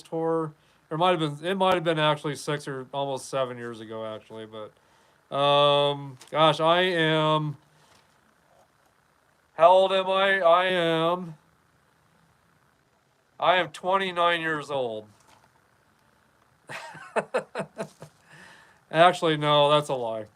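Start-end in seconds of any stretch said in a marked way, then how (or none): none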